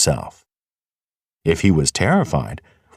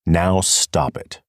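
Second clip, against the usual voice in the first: firm; slower than usual. Acted. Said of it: "said Hazel firmly".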